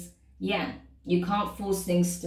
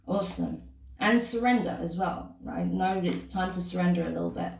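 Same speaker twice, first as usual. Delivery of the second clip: talking while crunching a cough sweet. Real, not acted. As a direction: speak around a hard sweet, crunching. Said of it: "Sorry if you can hear me crunching on".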